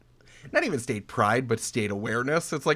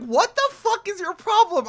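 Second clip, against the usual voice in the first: angry; 5 dB louder than usual. Retold or imitated. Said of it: "And I'm like".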